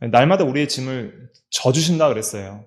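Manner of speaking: ordinary talk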